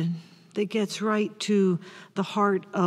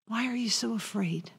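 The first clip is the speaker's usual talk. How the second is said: very soft question; 9 dB quieter, faster than usual. Acted. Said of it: "repeating Jesus' question".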